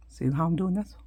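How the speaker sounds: whispered aside while concentrating. Real, not acted. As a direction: drop to a whisper as you work the thread. Softly showing a hand move.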